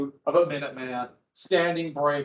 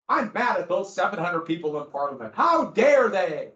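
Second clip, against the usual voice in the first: mock outrage; 5 dB louder than usual. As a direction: play the offended colonist, louder on the last words. Voicing angry colonists at Parliament.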